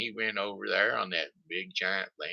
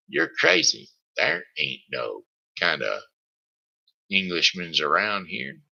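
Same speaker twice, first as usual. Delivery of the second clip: loud, dismissive scolding; scolding wife; 4 dB louder than usual. Acted. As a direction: brush off the husband sharply.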